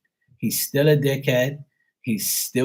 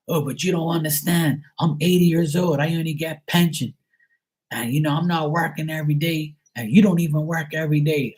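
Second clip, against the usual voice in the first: lightly voiced protesting dad, pitched up; dad's voice; 3 semitones higher than usual. Elderly dad protesting to his child about money, lightly mimicked. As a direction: imitate dad making excuses. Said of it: "I keep telling my dad".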